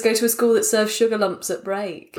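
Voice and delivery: ordinary delivery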